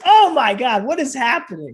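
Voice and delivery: high, loud, laughing out the words; stunned and giggling at the situation; laughing amazement. Retold or imitated. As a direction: fan overwhelmed by his idol's gratitude. Retelling stunned reaction, laughing.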